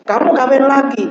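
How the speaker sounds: high-pitched mock astonishment; comically taken aback; surprised questioning. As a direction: retell it as an incredulous question, pitch jumping up. Retold incredulous questioning of the imam.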